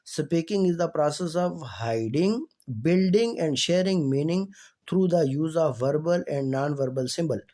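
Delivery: slow, careful reading of a definition; reading aloud. Acted. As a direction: read each word out clearly for the class. Reads English definition slowly.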